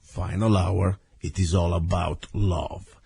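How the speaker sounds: rough caveman voice from a cold; hoarse, heavy-chested head-cold voice; big brute. Real, not acted. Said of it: "as you can hear my caveman voice".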